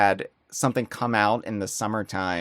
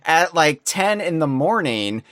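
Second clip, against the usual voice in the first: high, loud freaked-out outburst, much higher and louder; retold panic, much higher and louder; shocked, louder yell at an unexpected call; 7 semitones higher, 6 dB louder than usual. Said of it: "And I freaked out".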